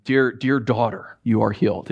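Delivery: gentle reassuring blessing; tender. Shown as a demonstration. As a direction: speak it like a loving father. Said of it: "how they would hear it".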